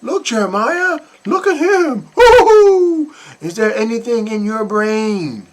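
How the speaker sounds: mocking the mother's delight. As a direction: parody her cooing. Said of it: "She's like".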